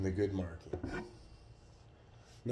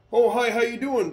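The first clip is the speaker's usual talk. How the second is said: friendly greeting; 13 semitones higher, 13 dB louder than usual. Retold or imitated. Retold officer greeting him at station.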